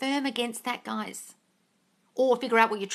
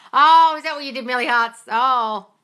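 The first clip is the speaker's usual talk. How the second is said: mock concern; 2 semitones higher, 8 dB louder than usual. Mock reaction to viewer's phone stunt.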